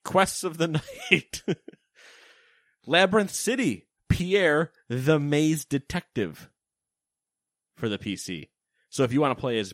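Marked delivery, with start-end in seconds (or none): 0.0-6.5 hammed-up French accent, louder; terrible French accent. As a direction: read game titles in bad French. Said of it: "all in a terrible French accent".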